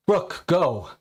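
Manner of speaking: loud, high command to run; warning a friend to flee, shouting; urgent shout. Acted. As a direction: yell at her to get away. Urging her to flee.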